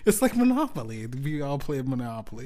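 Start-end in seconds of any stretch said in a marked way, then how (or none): 0.0-1.0 higher and louder, bursting out; excited outburst. Real, not acted. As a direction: shout the comparison with glee. Sudden loud exclamation.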